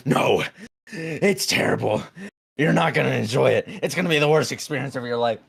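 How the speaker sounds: low gravelly dry calm. Retold or imitated. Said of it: "I had to have sounded like a war veteran".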